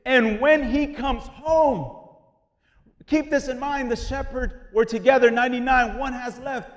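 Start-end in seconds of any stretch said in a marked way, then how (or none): 0.1-2.1 drawn-out, deliberate quote of the verse; slow scripture reading. Shown as a demonstration. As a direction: read the verse very slowly, weighing each word. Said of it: "verse six".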